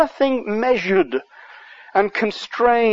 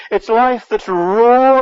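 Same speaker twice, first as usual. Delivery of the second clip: emphatic preaching; 3 semitones higher, 6 dB louder, slower than usual. Real, not acted. Preacher driving point home.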